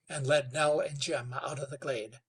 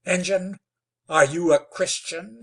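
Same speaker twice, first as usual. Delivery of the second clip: hissed; 4 semitones higher, 8 dB louder than usual. Acted. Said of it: "hissed Wetzel".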